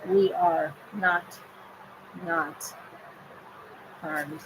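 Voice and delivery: we are not, not harmed, said slowly with long pauses between words; each word drawn out and set apart; slow, spaced-out words. Shown as a demonstration. Leading the group to say it together, slowly and deliberately. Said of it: "So we have to say it together".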